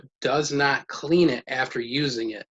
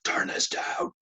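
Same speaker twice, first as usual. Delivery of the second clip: rude demand; slower than usual. Shown as a demonstration. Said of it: "go out there and be like".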